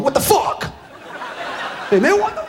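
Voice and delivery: high, exasperated mock Mary; hammed-up holy complaint; Virgin Mother voice. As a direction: whine it like a fed-up saint. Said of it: "And she's going".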